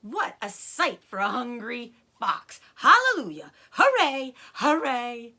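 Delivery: high, loud celebration; jubilant cheering. Acted. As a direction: whoop with joy. Mr Fox celebrating in the shed.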